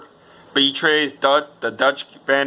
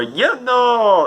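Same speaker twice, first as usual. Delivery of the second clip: put-on comic drunk shout; 10 semitones higher, 4 dB louder than usual.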